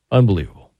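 loud, stunned Unbelievable; amazed exclaim. Real, not acted. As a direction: let the word burst out in amazement. Repeats the word for emphasis.

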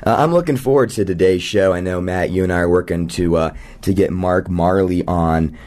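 hoarse, rough morning voice; talking through a low gravelly rasp. Real, not acted. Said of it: "with a low, gravelly voice, ... I'm doing that impression today".

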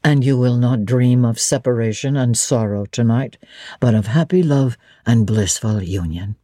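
low fond Rochester. Acted. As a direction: promise her sweet dreams, low. Rochester predicting happy dreams.

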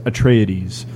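"Atreides" pronounced the Greek way; Greek-style pronunciation. Shown as a demonstration. Co-host offering how the name is pronounced, Greek-style pronunciation. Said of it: "Like, like it's Greek".

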